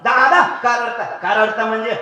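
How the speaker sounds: loud, high questioning; son calling out. Acted. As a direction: ask the weeping father loudly. Middle son asks crying father. (रडणाऱ्या बापाला मोठ्याने विचारणारा मुलगा)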